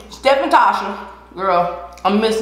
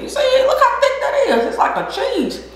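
laughing; 13 semitones higher than usual. Real, not acted. Laughing at the thick sauce.

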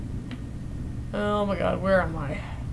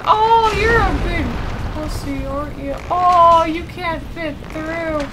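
mocking taunt. Real, not acted. Mocking stuck monster.

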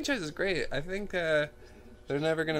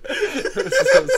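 much higher, slow, laughing hard; 10 semitones higher, 8 dB louder, slower than usual. Real, not acted. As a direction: squeal it through laughter. Cracking up at own joke.

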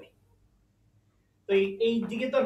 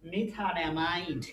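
drawn-out syllables, as if dictating; slow sounding-out; 3 semitones lower, 5 dB quieter, much slower than usual. Shown as a demonstration. Teacher gives students the one-carbon name, slow sounding-out. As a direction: stretch the chemical name slowly.

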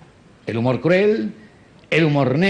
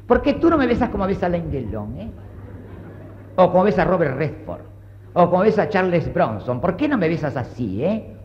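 swooning wife; 4 dB quieter than usual. Retold or imitated. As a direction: sigh it out like a lovestruck wife. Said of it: "sale del cine diciendo".

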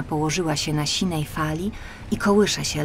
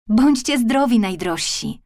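farewell; 4 semitones higher than usual. Acted. Mermaid bids her family farewell.

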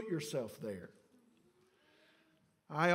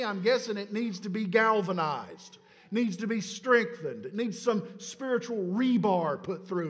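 raised, driving preacher's delivery; emphatic preaching; 5 semitones higher, 6 dB louder than usual. Acted. Pastor urging congregation toward stronger faith, emphatic preaching. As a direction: press each point home to the congregation.

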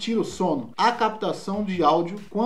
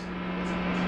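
sussurrado; 9 dB quieter than usual. Real, not acted. Repetição final, só sussurrada.

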